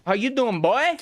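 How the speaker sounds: excited shouted greeting. Real, not acted. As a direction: yell the hello up high with glee. Greeting repeated, second time bigger.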